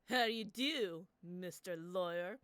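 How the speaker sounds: lightly voiced sinister bro, slow; a slow, menacing bro drawl; sinister gym bro. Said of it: "we'll do the bro voice, but more sinister".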